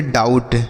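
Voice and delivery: "डाउट" with au and silent b; ou read as au. Shown as a demonstration. Teacher reads out the spelled word, "डाउट" with au. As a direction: model "डाउट" with an au glide. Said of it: "इसे हम पढ़ेंगे".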